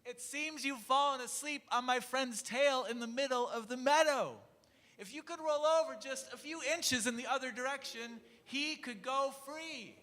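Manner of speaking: high, squeaky little mouse; tiny mouse voice. A narrator's reading. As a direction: squeak up at a giant. Mouse Nelson shouts to elephant.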